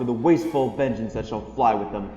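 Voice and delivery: building wrath, hammering each repeated "mock"; impassioned vow of vengeance; vehement royal threat. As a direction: drive the threat home with forceful stresses. King threatens war over the mockery.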